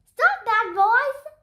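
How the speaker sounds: high, loud teacher's scolding yell; teacher shouting at noisy boys. Acted. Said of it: "Miss Daisy yelled".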